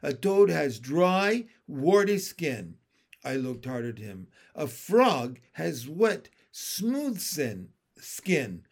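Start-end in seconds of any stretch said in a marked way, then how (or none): 0.0-2.8 slow, loud, deliberate pronouncement; commanding. Acted. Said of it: "in my most commanding voice". 4.5-8.6 slow, deliberate pronouncement; commanding lecture, lingering on "wet". Acted. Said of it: "in my most commanding voice".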